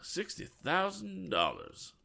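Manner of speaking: high, slow astonished "sixty thousand dollars"; gasped in amazement. A narrator's reading. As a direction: breathe out the sum in disbelief. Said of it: "gasped Mister Lyon".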